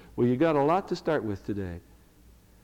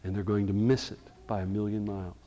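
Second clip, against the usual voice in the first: Paul's mild lament. Retold or imitated. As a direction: let the grief of Paul show, understated. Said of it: "Do you hear him saying".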